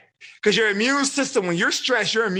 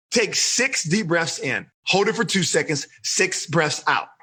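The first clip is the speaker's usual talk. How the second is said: calm guided breathing; 3 semitones lower than usual. Shown as a demonstration. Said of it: "let's do it real quick".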